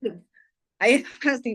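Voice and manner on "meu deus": a terrified passenger's little cry; mock frightened gasp. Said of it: "porque eu fazia assim, ó". (imitando um gemido de medo, agudo e baixinho)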